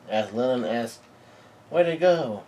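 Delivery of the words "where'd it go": higher-pitched acted bewilderment; lightly voiced puzzled child; puzzled question. Lillian wonders about missing clothes.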